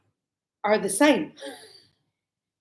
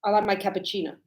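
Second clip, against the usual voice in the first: first-time customer. Retold or imitated. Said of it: "you go".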